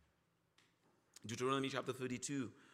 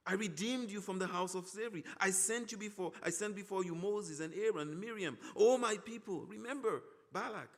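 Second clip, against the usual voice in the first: raised, earnest pleading voice; pleading, not angry; 3 semitones higher than usual. Acted. God pleading with his people, earnestly pleading. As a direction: plead with them like a hurt parent. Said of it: "he's pleading with them".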